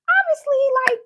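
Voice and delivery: emphatic. Real, not acted. Building anger at father.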